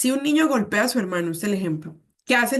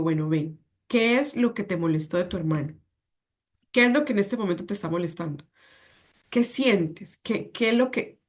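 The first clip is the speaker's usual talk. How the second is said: patient calm parent. Shown as a demonstration. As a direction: calmly invite the child to talk. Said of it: "modelemos ese control emocional con paciencia".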